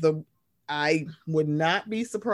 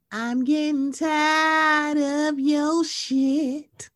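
slow intense whisper, pitched up; whisper yelling; 9 semitones higher, much slower than usual. Real, not acted. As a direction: hiss it out, fed up. Fed-up rant, whispered drawn out.

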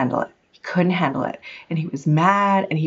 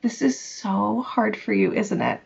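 soft, softer and understanding; tenderly validate a struggling son; quiet empathetic question to an upset child; gentle empathy; 4 dB quieter than usual. Retold or imitated. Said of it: "I turned to him instead and I said".

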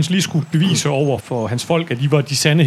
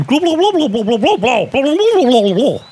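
high gurgling glub glub, louder; fish man gurgle; 9 semitones higher, 3 dB louder than usual. Acted. GM voices the fish man showing the potion, high gurgling. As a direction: babble like a fish creature. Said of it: "Og så siger han".

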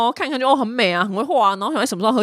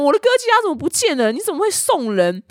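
angry husband; 7 semitones higher than usual. Retold or imitated. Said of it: "就大发雷霆".

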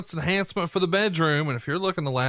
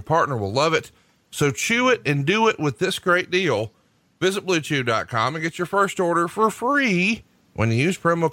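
ad read. Acted. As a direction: sell it like a podcast sponsor spot. Host reads Blue Chew ad.

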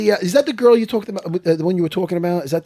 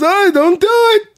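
higher, louder, slow Longo impression; imitating Longo; 13 semitones higher, 5 dB louder, slower than usual. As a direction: ham up Longo's refusal. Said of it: "you know how Longo talks".

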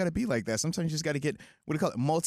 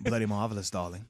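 put-on British accent; 8 semitones lower than usual. Cohost mocking the soccer crowd in a light British accent. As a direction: play a posh British toff, lightly. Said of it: "in London on the soccer pitch".

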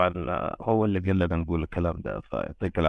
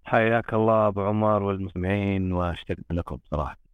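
thin voice over a phone line; am radio. Real, not acted. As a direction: sound like a call-in on the radio. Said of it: "صوته يعني كأنه جاي من الراديو".

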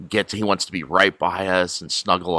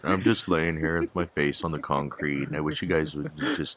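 dog voice; 3 semitones lower, 3 dB quieter than usual. Pretend. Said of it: "everyone do your version of the dog voice".

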